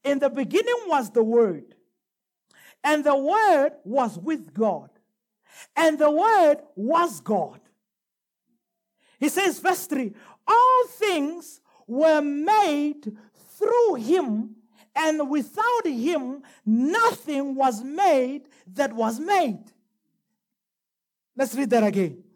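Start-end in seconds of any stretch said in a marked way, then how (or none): 0.0-7.6 slow, deliberate scripture reading; measured verse reading, spaced phrase by phrase; emphatic re-reading. Shown as a demonstration. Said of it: "Bazalwane, listen". 10.5-19.6 very slow, weighty verse reading; deliberate preacher reading aloud; scripture reading. Real, not acted. Reads scripture to the congregation.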